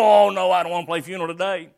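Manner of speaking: put-on fast, whiny child's protest; preacher voicing a child who's never satisfied; whiny refusal. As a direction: groan it like a spoiled kid. Children's game quarrel acted out.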